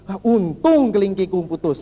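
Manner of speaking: slow, drawn-out acted relief; relieved king. King thankful for lost finger, relieved. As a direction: savour the lucky escape. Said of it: "dia lega sekali".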